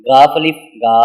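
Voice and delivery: "غاف الف گا" letter names first, then the joined sound; spelling out syllables. Shown as a demonstration. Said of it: "تو آپ نے یوں کہنا ہے". ("غاف الف گا" ہجے کر کے)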